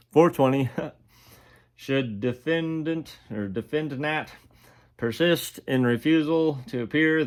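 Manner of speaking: reading the judge's order in a stiff formal tone; reading the court order. Retold or imitated. Reading the jail order aloud to viewers, mock official voice. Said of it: "it says".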